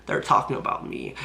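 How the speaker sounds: whispered excited aside; imitating a hushed whisper; mock whisper. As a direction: whisper it like a secret thrill. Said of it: "Fusi's like".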